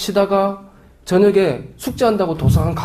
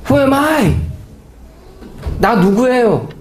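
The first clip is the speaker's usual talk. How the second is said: Moses asking; 8 semitones higher, much slower than usual. Acted. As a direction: ask like a lost man. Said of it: "모세가 하나님께".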